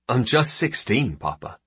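mild protest, voice lifting, then dropping on the last word; protesting son. Acted. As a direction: object like a teenager to a parent. Son protests to his father.

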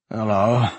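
scratchy. A narrator's reading.

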